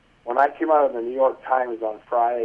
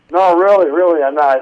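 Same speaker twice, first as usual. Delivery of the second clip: insistent lady on phone; 5 semitones higher, 7 dB louder than usual. Retold or imitated. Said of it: "she goes".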